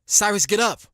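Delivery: high, loud call to wake him; urgent shout. Acted. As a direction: yell him awake.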